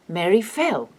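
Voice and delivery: fell carries the weight, Mary light; stress on FELL. Shown as a demonstration. Husband answering what happened to Mary, stress on FELL. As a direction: lean on fell. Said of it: "He can only say".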